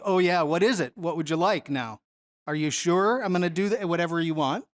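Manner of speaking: a hint of dry sarcasm, mildly mocking; sarcastic Jesus. Teacher reading Jesus answering the disciples, lightly sarcastic. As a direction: lightly tease the disciples' bold request. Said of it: "in Jesus' sarcastic voice".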